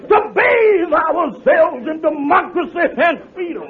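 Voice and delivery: slow, mock oratorical; soapbox speech. Calhoun reenacting his park speech to Kingfish, mock orator. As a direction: orate like a stump speaker. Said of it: "I stood on that soapbox and I said".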